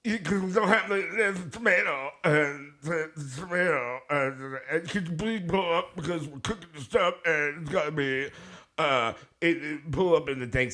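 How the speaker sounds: high, halting order-taker voice; hammed-up high-pitched drive-thru worker; mimicked drive-thru worker. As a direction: fumble through the order in a high mock voice. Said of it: "and she's just like".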